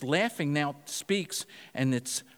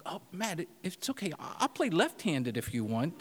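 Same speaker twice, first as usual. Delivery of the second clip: mock consolation. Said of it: "He's mocking him".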